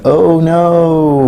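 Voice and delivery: lightly mimicking a squeaky toy's wail; a hint of the toy's little cry of alarm; Mister Bill toy's oh no. Reader voices his son's squeaking toy, mild mock cry. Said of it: "it went".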